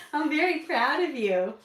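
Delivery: high, loud, proud praise; potty training praise. Real, not acted. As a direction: beam with pride at him. Praising toddler.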